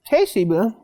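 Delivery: crunching while talking. Real, not acted. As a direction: talk through a crunchy bite. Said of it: "You can hear me crunching".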